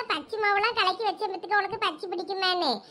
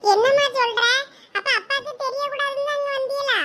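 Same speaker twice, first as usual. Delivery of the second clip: shocked; 5 semitones higher than usual. Acted. Son reacts to mother's news.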